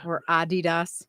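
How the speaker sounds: Adidas said as ah-DEE-dahs with open ah vowels; correct pronunciation. Shown as a demonstration. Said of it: "that's the correct pronunciation".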